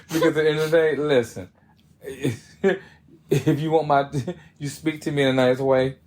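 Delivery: chuckling through the words; laughing. Real, not acted. To her co-host who defends harsh friends, laughing. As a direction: laugh as you push your point.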